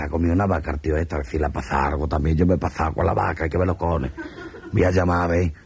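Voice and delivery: a man fretting that he overdid it; worried captain. Acted. Captain worrying alone about the soldier who ate a cow, anxious. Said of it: "el capitán preocupado dice".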